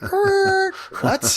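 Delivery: high squeaky confused er then what; baffled what. Retold or imitated. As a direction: sound thrown by the question. Baffled by the kid's question.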